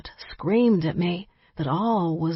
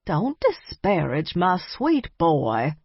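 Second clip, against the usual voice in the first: slow, chiding granny voice; chastising; slower than usual. Acted. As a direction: scold gently like a grandmother. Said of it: "Nana chastised".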